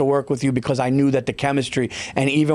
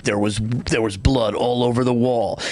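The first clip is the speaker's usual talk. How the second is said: crime-show narrator; 3 semitones lower than usual. Retold or imitated. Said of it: "like, the, the crime shows".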